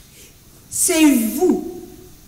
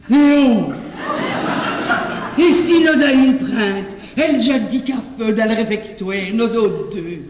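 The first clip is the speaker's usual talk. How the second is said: sultry voice; 3 semitones lower than usual. Shown as a demonstration. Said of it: "une voix langoureuse".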